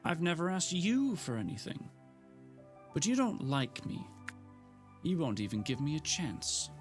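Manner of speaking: high, strained near-tears rant; fighting back tears while accusing; unsteady tearful voice. Acted. Gemma to Frank, near tears and indignant. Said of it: "her voice sounded unsteady".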